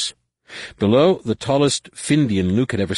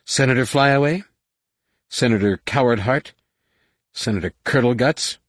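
higher, jeering names; mocking taunts; 6 semitones higher than usual. A narrator's reading. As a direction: sneer each nickname. Drunk captain mocks senators.

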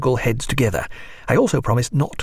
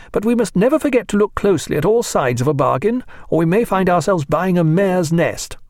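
Mrs Williams voiced; 8 semitones higher than usual. A narrator's reading. Resentful lady scolding the doctor, higher and haughty. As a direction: lecture him with cold superiority.

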